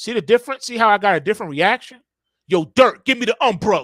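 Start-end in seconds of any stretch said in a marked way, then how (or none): 2.5-3.8 harsh, rough, blunt, unsoftened delivery. Speaker contrasting two ways of asking Dirt for the umbrella, rough tone with bass. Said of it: "The tone".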